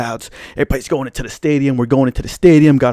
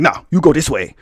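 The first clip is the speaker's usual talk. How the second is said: put-on African accent. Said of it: "some dark-skinned African dude".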